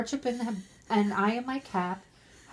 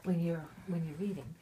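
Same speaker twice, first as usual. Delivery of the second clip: breathy whispered aside; 4 semitones lower, 8 dB quieter, faster than usual. Real, not acted. Reader muttering an aside to the listener, whispered. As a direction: drop to a whisper mid-reading. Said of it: "unvoiced whisper".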